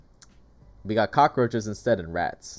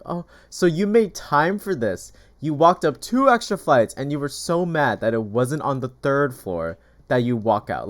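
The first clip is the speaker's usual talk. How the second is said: mocking sarcasm; 4 semitones higher, 5 dB louder than usual. Vlogger sarcastically mocking the angry tenant's words. She mocks the man's complaint.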